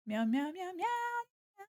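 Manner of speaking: high, soft kitty meows rising; playful meow. Pretend. Streamer meows at chat, playful. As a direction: meow like a little cat.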